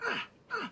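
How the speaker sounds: high strained "ah" grunts; short high cries mimicking stomps; fight noises. Viewer imitating the stomping, high grunts.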